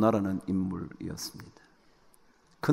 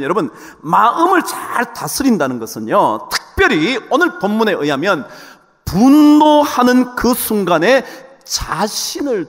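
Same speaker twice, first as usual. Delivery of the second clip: emphatic sermon delivery, key words stretched; forceful preaching; 9 semitones higher, 10 dB louder than usual. Acted.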